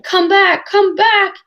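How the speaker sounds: put-on a boy screaming at a ship leaving; frantic yell. A narrator's reading. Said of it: "his voice rose insanely".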